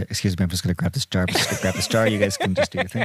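mock hasty excuse. Imitating Unferth sneaking off with jar.

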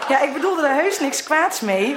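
talking through real laughter; laughing. Real, not acted. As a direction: explain yourself while giggling. Laughs while explaining herself. (al lachend praten)

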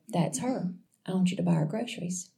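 soft, understated quoted voice; quiet inner voice. Retold or imitated. The Lord speaks to her heart about a stranger, quietly. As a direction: softly voice the Lord's quiet prompting.

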